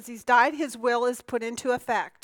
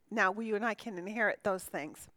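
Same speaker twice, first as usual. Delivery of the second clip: quiet, choking throat; 3 semitones lower, 7 dB quieter than usual. Real, not acted. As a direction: get the words out while choking. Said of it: "Man, I'm choking badly".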